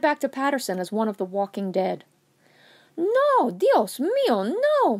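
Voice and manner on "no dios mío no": loud, high cry of alarm; shouting. A narrator's reading. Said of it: "Mama Anna shouted".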